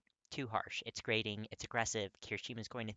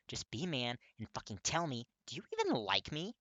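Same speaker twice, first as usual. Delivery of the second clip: heated yelling; 3 semitones higher, 6 dB louder than usual. Acted. Heated confrontation, Kirishima yelling.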